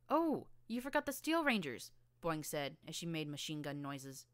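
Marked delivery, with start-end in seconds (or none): 0.1-1.9 much higher and louder, eager blurt; excited. Acted. Boing eagerly reminding Scootle, much higher and louder. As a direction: burst in with it.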